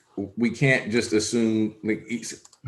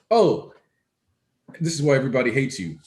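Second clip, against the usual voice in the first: higher-pitched mock realization; imitating Kaminari; 4 semitones higher than usual. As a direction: quote a character's quick, higher-voiced jab. Acts out Kaminari's quoted reaction.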